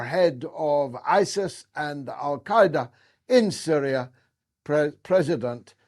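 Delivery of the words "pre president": choking over the word. Real, not acted. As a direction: stumble on the first syllable, then restart. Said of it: "I had to choke over that word".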